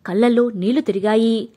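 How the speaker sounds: plain reading voice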